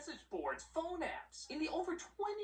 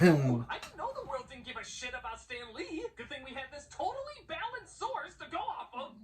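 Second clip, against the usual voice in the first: sarcastic; 6 dB louder than usual. Acted. Mocking the biased newscaster.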